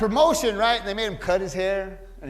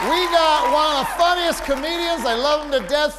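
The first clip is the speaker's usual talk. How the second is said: hyped emcee; 8 semitones higher, 9 dB louder than usual. Real, not acted. Host announcing tonight's guests to the crowd, hyped emcee. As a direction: build to a shouted send-off.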